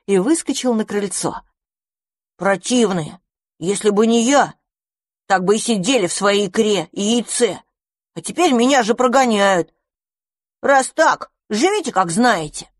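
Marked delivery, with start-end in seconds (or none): 2.4-12.7 higher, tearful indignant rant; hurt and angry. Acted. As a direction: stomp off offended, near tears. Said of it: "От злости и обиды".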